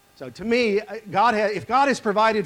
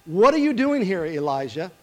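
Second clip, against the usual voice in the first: voice of God; 5 dB louder than usual. Acted. The Lord questioning Elijah in the cave, loud and commanding. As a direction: call out the question with authority. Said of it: "the word of the Lord came to him".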